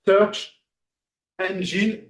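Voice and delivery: "Search Engine" word by word, a pause between; prononciation appliquée. Shown as a demonstration. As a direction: say "Engine" carefully, ending in "een". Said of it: "dites bien engine". (« Engine » bien prononcé, finale en « ine »)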